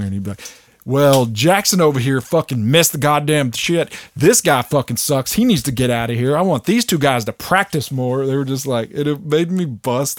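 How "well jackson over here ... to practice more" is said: loud, harsh chewing-out; imitating a furious coach ripping into players; ruthless Kobe. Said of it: "how ruthless Kobe was".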